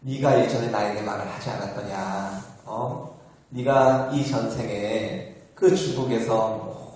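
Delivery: a slow, solemn chiding, lightly acted; Guanyin's gentle reproach. Bodhisattva stroking the dreamer's head, mildly acted reproach. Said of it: "이렇게 쓰다듬으면서 하는 말씀이".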